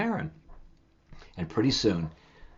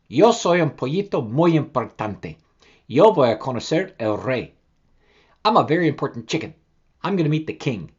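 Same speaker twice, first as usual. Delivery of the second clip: boastful chick voice, a touch puffed up; proud little chick; 5 dB louder than usual. Acted. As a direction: brag like a very important chicken. Proud chick talks to mother.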